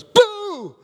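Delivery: put-on a playful high "Boo!" like a little girl sneaking up; spring it on him like a kid; child's boo. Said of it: "one of my great nieces comes up and she goes".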